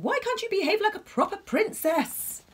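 exasperated high angry shout; angry king. Acted. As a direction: scold her like a cross king. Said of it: "yelled the king".

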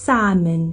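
"Simon" meant as salmon, SAM-un; "Simon" said SAM-un, stressed first; silent L. Shown as a demonstration. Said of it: "บ่ออกเสียง L เด้".

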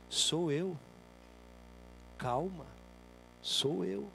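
little inner voice. Acted. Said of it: "vem uma vozinha lá de dentro".

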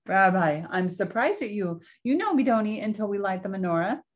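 a hint of a sweet old grandmother; old Baba Brana. Baba Brana fusses over her guest's coat, lightly voiced old woman.

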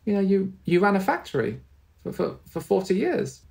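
high, gentle reminding of a husband; a touch of tender patience; mild sweet reassurance. Retold or imitated. Wife gently reminding her husband of his job, high and sweet. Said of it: "my mum just very sweetly said".

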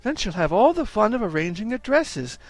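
cooing Mrs Jones. Acted. Mrs Jones to Mrs Brown showing the doll dresses, cooing. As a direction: delight in the tiny dresses.

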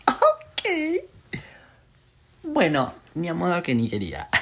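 high squeal of shock that drops back down; retold startled yelp; startled reaction. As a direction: replay the jolt of fright. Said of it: "Dije, tipo".

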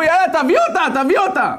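put-on loud, high drunken egging on; rowdy urging. The drunk friends urge the king to bring her, loud and rowdy. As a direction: egg him on like a rowdy drunk.

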